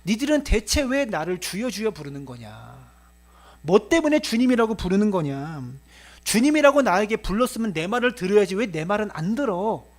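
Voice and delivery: exasperated questioning as the Lord; mildly acted reproach of those who won't listen; lamenting rebuke. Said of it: "이렇게 탄식하고 있다". (탄식하며 따져 묻듯)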